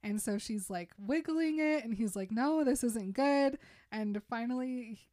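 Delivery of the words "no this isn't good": higher, louder retold objection; mock protest. Shrek while she wiggles the arrow, mock protest. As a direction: object like a fussy film character.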